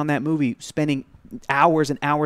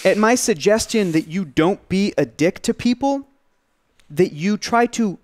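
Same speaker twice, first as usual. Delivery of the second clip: indignant retort; 3 semitones higher, slower than usual. Retold or imitated. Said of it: "I go".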